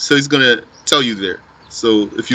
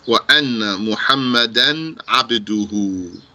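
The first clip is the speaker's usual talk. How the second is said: quick recitation; 3 semitones lower, much faster than usual. Shown as a demonstration. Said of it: "So puts emphasis on the predicate".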